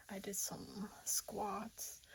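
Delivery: breathy whispered aside, slow. Real, not acted. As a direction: hush it, almost to yourself. Whispering after workout.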